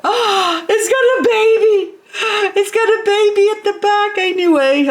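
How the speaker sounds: high-pitched, quick delighted gasp and squeal; thrilled, very high, rushed cry of discovery; excited squeal. Real, not acted. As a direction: squeal at a surprise find. Spots a baby on her new plant.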